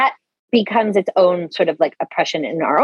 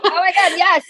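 excited yes; 10 semitones higher than usual. Retold or imitated. Excited agreement, very high pitch.

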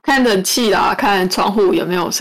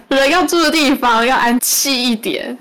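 slower, spelling it out; slow clear repeat; 4 semitones higher than usual. Shown as a demonstration. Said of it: "我是说".

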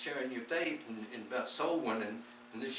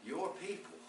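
incredulous; 6 semitones higher, 6 dB quieter than usual. Retold or imitated. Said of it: "I said".

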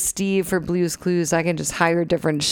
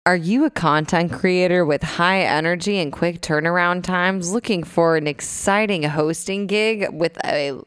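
mock job ad read. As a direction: read it like a hiring ad. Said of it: "She's written the script for this".

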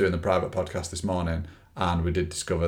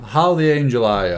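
mock Irish; 4 semitones higher, 5 dB louder than usual. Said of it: "Irish now".

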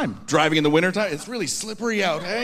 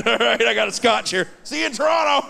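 mock gloating shout. Dad to son from business class, mock gloating shout.

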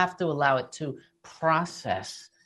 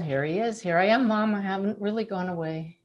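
soft, slightly lifted voice of a son; tender quoted message, trailing softer; gentle imagined reassurance; 2 semitones higher, 4 dB quieter, faster than usual. Retold or imitated. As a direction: softly comfort a grieving mother. Voicing dead son reassuring mom.

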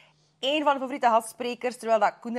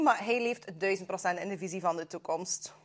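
whispered aside; 3 semitones lower, 6 dB quieter than usual. Real, not acted. Aside about the speaker.

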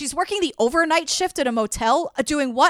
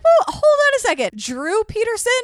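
higher, alarmed double take; mock cop disbelief; 7 semitones higher than usual. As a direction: stop them mid-story in disbelief. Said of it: "they're like".

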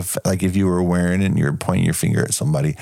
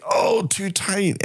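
high, slow mock whine of the torturer; mock villain complaint; 10 semitones higher, much slower than usual. Retelling the villain's line to a friend, high slow whine. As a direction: drag out a high fake moan. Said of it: "he starts saying".

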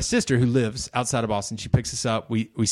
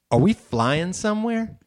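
mock wondering; 6 semitones higher than usual. Son's first question at airport.

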